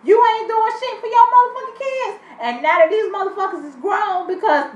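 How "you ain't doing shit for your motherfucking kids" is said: retold angry outburst. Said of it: "tell me to my face".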